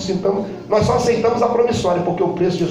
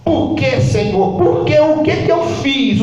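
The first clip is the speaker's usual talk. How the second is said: grito retratado; 4 semitones higher, 4 dB louder, slower than usual. Retold or imitated. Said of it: "minha esposa dá um grito".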